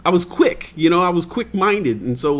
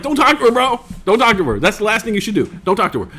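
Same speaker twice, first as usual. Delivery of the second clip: higher urgent plea; pleading kid; 8 semitones higher, faster than usual. Retold or imitated. Boy begging neighbor not to tell mom, high urgent. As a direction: beg him not to tell. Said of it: "I was like".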